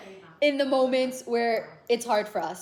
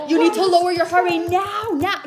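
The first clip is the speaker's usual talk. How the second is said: retold scream; 6 semitones higher, 5 dB louder than usual. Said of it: "He's screaming at me".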